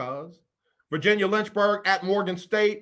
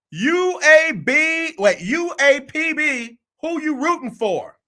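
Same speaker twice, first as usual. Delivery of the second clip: much higher and louder, drawn-out mock co-host voice; imitating Erica Cross; 10 semitones higher, 6 dB louder, slower than usual. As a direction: ham up a co-host needling him. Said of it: "Erica Cross said".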